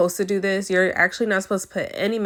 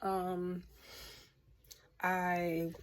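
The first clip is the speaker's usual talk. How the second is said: hushed voice; 14 dB quieter than usual. Real, not acted.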